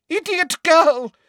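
high, loud, slow scolding shout; teacher shouting at a pupil. Acted. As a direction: bellow the insult slowly. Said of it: "shouted Umbridge".

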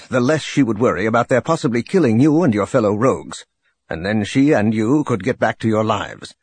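measured intelligence briefing; brief them formally, with a hint of a military officer; lightly voiced general. General briefing a pilot on pirates, lightly voiced formal officer. Kraken explains Mirax's part.

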